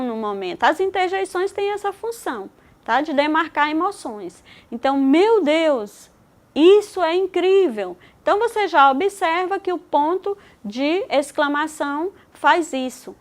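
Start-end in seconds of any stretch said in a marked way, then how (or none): 5.0-8.0 mild demo of surprise and amazement for the class; exclamatory reading. Shown as a demonstration. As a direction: read "Meu Deus, isso é incrível!" as a lively exclamation, a bit louder. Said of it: "Lhe obriga a ler a frase com uma entonação diferente".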